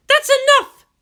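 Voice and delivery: sudden high, loud shout. Acted. Guardian shouting at the girl, loud shout. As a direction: slam it down with a yell. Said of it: "she shouted".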